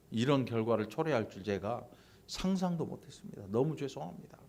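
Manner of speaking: acted humble apology; sincere apology. Someone at fault explaining they never foresaw this, acted sincere apology. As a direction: apologise earnestly, a little subdued. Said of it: "진심 어린 사과가 있어야 되고".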